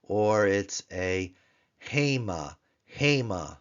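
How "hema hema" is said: hema with the stress on the last syllable, ma; Hebrew hema. Shown as a demonstration. Teacher demonstrating hema's final-syllable accent to students. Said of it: "tone syllable on the P note".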